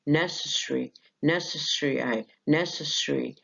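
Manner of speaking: "necessary" with its middle syllable kept, "ne-ses-ri"; word alone, unreduced. Shown as a demonstration. Teacher showing the word said by itself, fuller form. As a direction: say "necessary" carefully as a standalone word. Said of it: "لو قلت الكلمة لوحدها مش هينفع".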